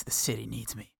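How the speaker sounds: softly imitated gritty monologue; understated mock-noir narration; brooding monologue. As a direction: brood quietly, as if narrating to yourself. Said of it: "a lot of the monologues are sort of".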